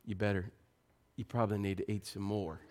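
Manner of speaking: put-on low, soft aside to the boys; hushed warning. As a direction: drop the voice into a quiet, low warning. Dad warning his sons of mom's anger.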